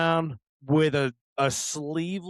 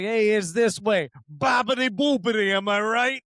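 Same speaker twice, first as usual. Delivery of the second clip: mock Italian-American accent; 3 semitones higher than usual. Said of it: "I was like".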